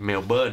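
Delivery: Melbourne said short as "Mel-bn"; the local way to say Melbourne; Aussie pronunciation. Shown as a demonstration. Co-host correcting the spelled-out reading. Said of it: "แต่กลายเป็น".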